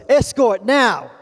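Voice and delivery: slow, loud, clipped command; stern officer order. Retold or imitated. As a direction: bark the two words like a border officer. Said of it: "he said two words".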